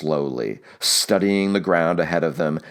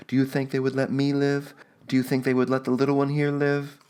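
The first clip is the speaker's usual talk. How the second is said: higher, pleading and pressing, fast at the end; Juana goading; 8 semitones higher, faster than usual. A narrator's reading. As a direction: press him hard to save the child. Juana goading her husband.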